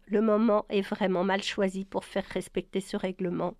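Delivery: understated, composed reasoning; calmly. Acted. Ellie to Brian, mildly calm objection. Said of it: "dit-elle avec calme".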